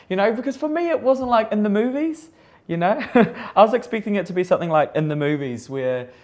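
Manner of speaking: loud, high, laughing through the words; can't believe she stayed put, laughing; laughing disbelief. Real, not acted. Makeup artist to interviewer, laughing loudly about ignoring the quake. Laughing at her own naivety.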